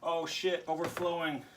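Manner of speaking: sudden high alarmed curse; startled yelp. Real, not acted. Bottle overflowing.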